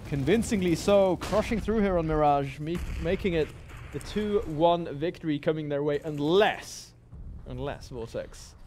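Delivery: slow, emphatic closing call; esports caster. Acted. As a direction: sell the coming victory.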